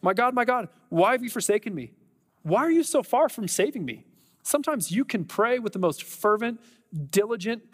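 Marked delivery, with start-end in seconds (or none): 0.0-1.9 higher, pleading lament; crying out to God. Acted. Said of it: "had that cry out to God". 2.4-4.0 high, pleading question; crying out to God. Acted. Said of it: "had that cry out to God".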